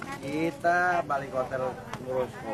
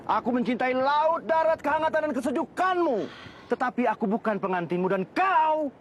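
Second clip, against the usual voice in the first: much higher, soaring dramatic declamation; hammy stage actor; 5 semitones higher than usual. Shown as a demonstration. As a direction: belt it out like theatre. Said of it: "Bisa nggak?". (deklamasi teatrikal dengan suara tinggi)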